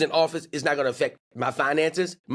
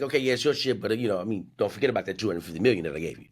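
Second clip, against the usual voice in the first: Elon impression; 7 semitones lower, much faster than usual. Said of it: "But Elon's like".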